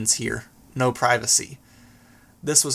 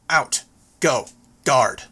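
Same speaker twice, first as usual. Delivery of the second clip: barked orders; slower than usual. Acted. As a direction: bark them at the dogs. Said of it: "barking out the orders".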